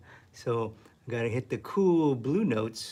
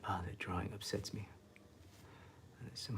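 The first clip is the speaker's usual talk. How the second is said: softer whispered complaint; hushed grumble in a whisper; 13 dB quieter than usual. Real, not acted. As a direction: whisper your frustration to yourself. Painter frustrated with drawing.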